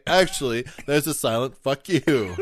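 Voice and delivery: snarky know-it-all correction; insistent correction. Retold or imitated. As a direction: correct them with a smug jab. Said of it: "that's a pretty good comeback".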